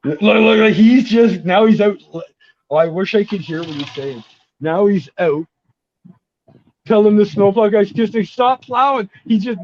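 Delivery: high, excited play-by-play of a mishap. Real, not acted. Friend relaying a snowplow standoff out the window, excited. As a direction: excitedly report it, pitched well up, amused.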